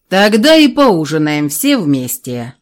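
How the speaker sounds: slow, unarguable dragon decree; firm dragon. Acted. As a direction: state it so no one dares argue. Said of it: "непререкаемым тоном заявила правая голова".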